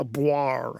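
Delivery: spoken mock brass blare; imitated brass sound. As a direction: voice a brass noise as a made-up word. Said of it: "you may hear a brass sound".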